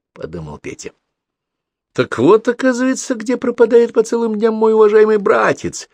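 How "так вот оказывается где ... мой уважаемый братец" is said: put-on stern older brother, raised voice. A narrator's reading. Petya sternly summons his little brother, stern raised voice. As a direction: scold him like a strict big brother. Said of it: "строго сказал Петя".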